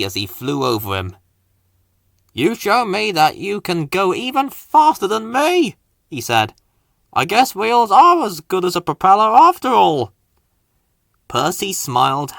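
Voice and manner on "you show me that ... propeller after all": higher helicopter voice, good-natured; Harold conceding. Acted. Helicopter conceding to Percy, higher and good-natured. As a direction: admit defeat kindly.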